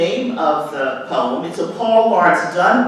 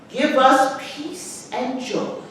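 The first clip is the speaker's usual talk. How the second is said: slow, softer closing grace; slow gentle prayer; 4 semitones higher, 4 dB quieter, slower than usual. Acted. Mother finishing grace in the poem, slow and soft. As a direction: ease back into the blessing. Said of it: "recite the words to this poem".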